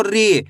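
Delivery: री with a long ee; drawn-out vowel. Shown as a demonstration. Teacher demonstrating the big matra, री stretched out. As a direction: hold the ee in री. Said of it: "बड़ी ई की मात्रा को खींच".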